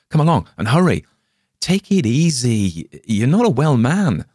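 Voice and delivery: loud, high hurry-up; urgent call. Acted. Morgan chasing his sick friend down the stairs, urgent and loud. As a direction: urge him on, worried.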